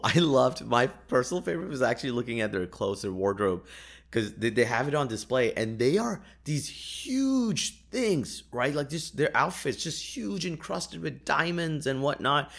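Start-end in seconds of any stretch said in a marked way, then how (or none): 5.5-12.5 higher, drawn-out amazement over huge outfits; awed exaggeration. Real, not acted. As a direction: stretch the words in wonder. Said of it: "when I say big".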